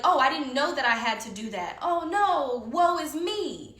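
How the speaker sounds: sarcastic mock innocence; mock helpless. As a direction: play dumb with a sarcastic woe. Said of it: "likes to play stupid on purpose".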